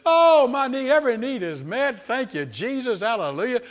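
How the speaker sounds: high, loud jubilant shouting, easing off; mock-laughing hallelujahs at high pitch; exultant praise. Shown as a demonstration. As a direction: cry out praise as if overjoyed. Demo of praising while fake laughing.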